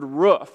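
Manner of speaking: ROOF with the short oo of "book"; short vowel roof. Shown as a demonstration. Pastor asking who agrees, short-vowel ROOF. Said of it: "like normal people would say".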